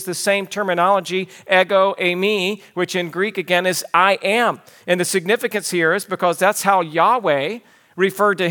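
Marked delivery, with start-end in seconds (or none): 3.9-4.6 "I am" set apart with firm weight; emphatic I AM. Shown as a demonstration. Preacher translating the Greek, "I am" with emphasis. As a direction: land on "I am" as a declaration. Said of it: "stated with great emphasis".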